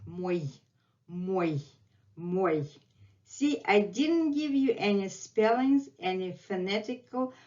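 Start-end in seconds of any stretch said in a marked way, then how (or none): 0.1-2.7 Мой ending in a short й glide; semi-consonant demo. Shown as a demonstration. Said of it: "This is our semi-consonant".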